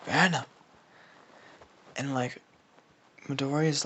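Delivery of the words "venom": low monster voice, cutting in; lower, dark symbiote growl of correction; Venom. Acted. Venom cutting off Carnage, low creature voice. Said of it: "Venom ki-, cuts him off".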